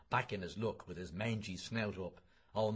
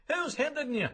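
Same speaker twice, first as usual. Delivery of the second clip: sneering jeer; 5 dB louder than usual. Acted. Citizen sneering at Bloom.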